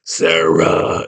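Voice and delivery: big beast slowly calling a name; put-on creature call; Ludo. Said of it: "The big beast guy".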